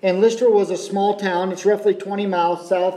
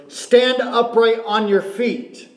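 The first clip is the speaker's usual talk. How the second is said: mild mock command, slow and a bit higher; loud command; 5 semitones higher, slower than usual. Paul to the lame man, slow raised command. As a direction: proclaim it slowly, a touch of Paul's loud call. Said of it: "to say in a very loud voice".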